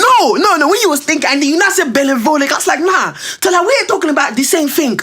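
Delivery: high excited retelling. Real, not acted.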